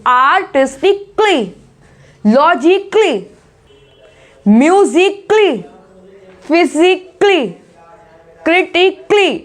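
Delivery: slow word list, each ending in a tight "klee"; आर्टिस्टिकली to क्रिटिकली, each split before a one-syllable क्ली; model pronunciation. Shown as a demonstration. Teacher drilling the klee ending, slow careful pronunciation. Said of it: "क्ली करके आवाज आती है".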